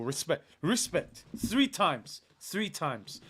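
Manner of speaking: a hint of Mourinho, barely shifted from the own voice; lightly voiced Mourinho, understated and clipped to the words; Jose impression. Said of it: "that was my Jose impression".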